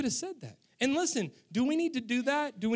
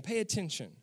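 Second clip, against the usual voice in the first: softer, tender reminder to a son; gentle fatherly; 3 semitones lower, 4 dB quieter than usual. Shown as a demonstration. Father speaking lovingly to his son Kagan, softer and tender. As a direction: say it quietly, like a loving dad. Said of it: "if I said to Kagan".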